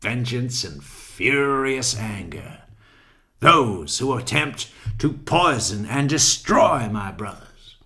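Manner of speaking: slow, lightly voiced Bible-verse menace; a hint of the Pulp Fiction preacher; slow mock vengeance speech; Samuel L. Jackson. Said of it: "Sam Jackson".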